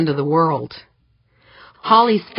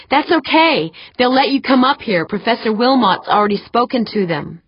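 higher voice, settling as it goes; reassuring woman caller; 6 semitones higher than usual. Acted. Holly reassures her friend about the guards, high voice. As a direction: reassure from high pitch, easing down.

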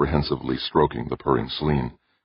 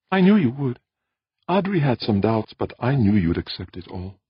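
pleased, higher-pitched woman's line; happy; 8 semitones higher than usual. A narrator's reading. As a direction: say it with a happy smile, voice lifted at first. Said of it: "She smiled happily".

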